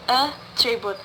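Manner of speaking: attribute with AT stressed; stress on first syllable. Shown as a demonstration. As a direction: lean on AT in attribute. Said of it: "word stress in the first syllables".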